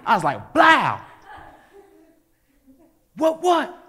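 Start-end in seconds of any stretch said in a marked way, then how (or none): 0.5-1.0 high, loud "blow" as a blow lands; explosive punch noise. Retold or imitated. Teller acts out punching his friend in the face, explosive shout. 3.2-3.8 high, loud taunt; cocky crowing. Retold or imitated. Boy who just punched his friend, cocky crowing.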